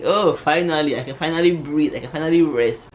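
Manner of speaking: loud, exclaimed mock relief; happy relief. Sister happy for her about the crush, exaggerated relief. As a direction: imitate someone relieved at long last. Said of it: "my sister was happy for me".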